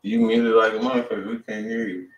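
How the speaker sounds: normal talking voice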